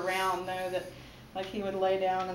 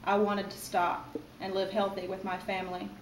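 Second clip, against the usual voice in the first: measured recital with pauses after each phrase; poetry reading. Acted. Mother reading her poem to her baby son, measured poetry recital. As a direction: read it as verse, phrase by phrase. Reads own poem aloud.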